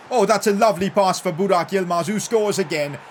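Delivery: loud shouted goal call; real excitement at another goal; excited goal shout. Real, not acted. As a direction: shout it as the ball goes in. Goal scored in live commentary.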